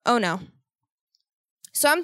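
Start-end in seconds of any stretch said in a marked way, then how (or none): 0.1-0.4 low and completely unfazed; so calm. Retold or imitated. Imitating the woman who found it, very calm. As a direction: say it as if nothing is wrong. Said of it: "Like, so fucking calm".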